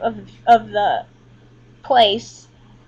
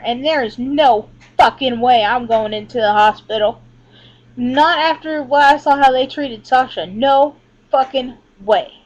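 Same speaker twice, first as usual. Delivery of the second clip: emphatic, slightly louder, firm refusal; real, vehement refusal; adamant refusal; 4 dB louder than usual. Real, not acted. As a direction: put your foot down, punching the key words. Adamant refusal to enter hospital.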